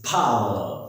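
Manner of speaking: lightly voiced villain catchphrase, slowly stretched; a hint of a boastful TV villain scientist; Doctor Jaikal. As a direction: draw out 'power' with a puffed p. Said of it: "doctor जयकाल एक character है".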